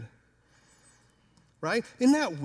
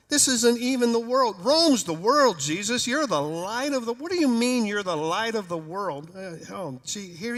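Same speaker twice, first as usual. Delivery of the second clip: 1 incredulous protest; 3 semitones higher, 3 dB louder than usual. Acted. Disciples arguing with Jesus.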